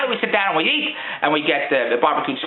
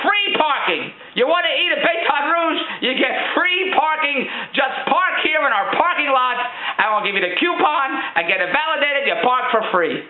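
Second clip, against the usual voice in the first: ad read; 5 semitones higher than usual. Pretend. Reading the banner.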